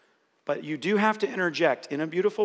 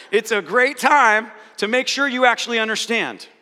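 laughing while talking; 5 semitones higher, 7 dB louder than usual. Real, not acted.

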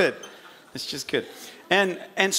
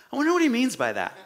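quick, high clueless murmur; mock puzzlement; 6 semitones higher, faster than usual. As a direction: wonder aloud, comically missing the point. Acting out clueless disciples' reaction.

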